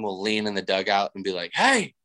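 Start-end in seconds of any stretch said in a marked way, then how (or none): 1.5-1.9 high sing-song call, hey rising very high; calling fan. Retold or imitated. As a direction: call out like a fan leaning in the dugout. Fan calls into the dugout.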